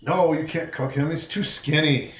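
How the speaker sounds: posing as a goblin. Acted. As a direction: argue it as one of the gang. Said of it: "walk right up to him and be like".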